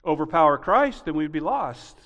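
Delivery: loud, high, driving sermon voice; fiery preaching. Acted. Pastor preaching hard to the congregation, fiery. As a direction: preach it out with rising force.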